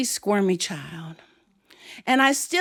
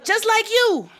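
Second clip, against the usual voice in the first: cheeky comeback; 12 semitones higher than usual. Acted. Child's cheeky comeback, acted.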